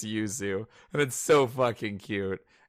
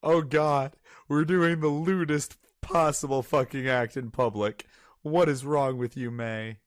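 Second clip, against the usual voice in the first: panicked Yuzu; 4 semitones higher than usual. Retold or imitated. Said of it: "she's like".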